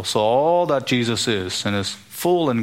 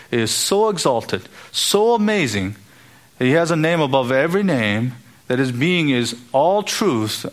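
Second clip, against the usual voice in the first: rising fervor; 2 semitones higher than usual. Real, not acted. Building exaltation of Jesus.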